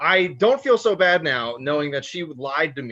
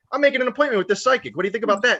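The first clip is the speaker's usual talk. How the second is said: excited; 6 semitones higher, 3 dB louder, much faster than usual. Retold or imitated. Excitedly telling mom about psychic.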